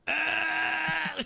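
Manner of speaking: loud, high mock retching cry; hammed-up gagging noise; imitated gag. Little boy hit by the bathroom smell, imitated gag. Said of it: "He started fucking gagging".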